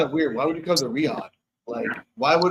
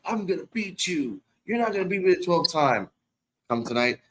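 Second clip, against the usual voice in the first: attempted Scottish accent; 2 semitones higher, 3 dB quieter than usual. Podcaster voicing Drew McIntyre's brag, failed Scottish accent. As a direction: try a Scottish wrestler's brag and miss into Irish. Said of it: "I can't do the Scottish".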